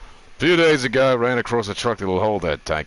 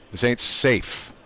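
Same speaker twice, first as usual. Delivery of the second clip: usual speaking voice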